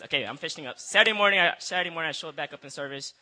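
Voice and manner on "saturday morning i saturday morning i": laughing. Real, not acted. Giggling restart, finishing up.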